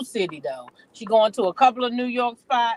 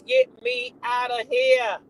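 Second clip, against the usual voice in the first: much higher, slow drawn-out plea; mock squeal; 12 semitones higher, slower than usual. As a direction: stretch the squeal for laughs.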